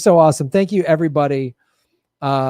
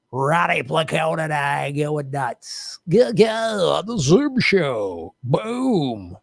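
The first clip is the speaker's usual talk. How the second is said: hyping; slower than usual. Acted. Hyping Friday show.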